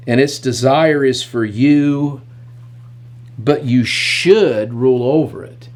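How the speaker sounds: slow, weighty reading of "If you do well"; solemn scripture reading. Acted. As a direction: deliver God's words with gravity. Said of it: "God makes the statement that's really the whole crux".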